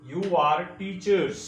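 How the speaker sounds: "teachers" said slowly with the final s clearly hissed; full final s. Shown as a demonstration. Teacher showing students the full s sound in "teachers". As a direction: stretch out "teachers" and let the s ring. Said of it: "एस का sound आना चाहिए".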